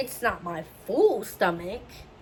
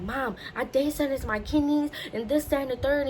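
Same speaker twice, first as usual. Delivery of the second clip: higher-pitched, urgent report to Mom; mild retold panic; 5 semitones higher than usual. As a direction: spill the news with some alarm. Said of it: "I'm panicking at this point".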